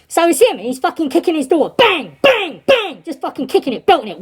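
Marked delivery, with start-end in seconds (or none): 1.8-3.0 punchy spoken bangs, pitched up and falling; imitated banging. Inmate kicking his cell door, imitated banging. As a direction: voice each kick as a higher, falling bang.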